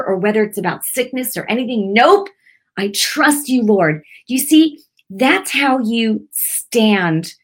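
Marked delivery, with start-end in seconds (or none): 1.9-4.0 firm declaration. Shown as a demonstration. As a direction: shut the devil down with a firm Nope. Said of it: "the devil tries to bring a bad picture".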